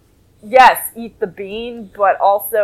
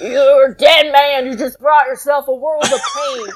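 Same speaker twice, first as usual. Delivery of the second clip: mock shouted threat, slightly raised; retold scream; 2 semitones higher than usual. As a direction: deliver a hammed-up threat, half shouted. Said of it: "he screams at Gohan".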